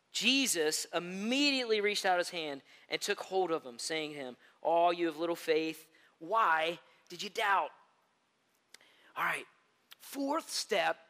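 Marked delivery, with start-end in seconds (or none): 0.1-7.7 scripture reading. Acted. Reads scripture aloud.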